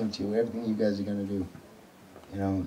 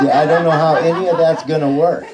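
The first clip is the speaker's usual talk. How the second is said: laughing; 5 semitones higher, 8 dB louder than usual. Real, not acted. Laughing at a joke.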